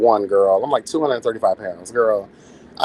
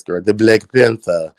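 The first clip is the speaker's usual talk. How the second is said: Black Panther voice; 5 semitones lower, 4 dB louder than usual. Retold or imitated. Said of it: "you know I gotta do the voice".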